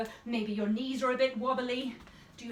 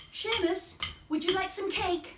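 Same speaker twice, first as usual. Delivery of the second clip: offering demo; 7 semitones higher than usual. Shown as a demonstration. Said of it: "Next one".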